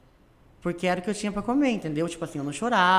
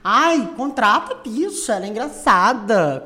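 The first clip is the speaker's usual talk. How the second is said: mock diva; 2 semitones higher, 7 dB louder than usual. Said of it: "falou assim".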